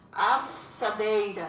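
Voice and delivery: Assadeira said slowly, each syllable clear; sounding out syllables. Shown as a demonstration. Teacher reveals the unscrambled word slowly. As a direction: slowly spell out Assadeira as-sa-dei-ra. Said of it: "E a outra lá tá asdeiçara".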